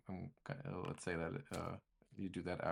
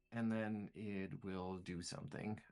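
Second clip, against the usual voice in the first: ordinary delivery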